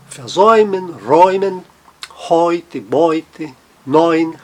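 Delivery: versäumen, räumen, heute, Beute, neun each with a clear "oi". Shown as a demonstration. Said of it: "som de oi".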